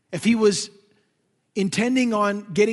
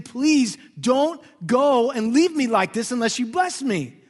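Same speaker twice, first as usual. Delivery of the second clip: pleading weeping Jacob; 4 semitones higher, 5 dB louder, slower than usual. Retold or imitated. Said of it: "He was weeping, saying".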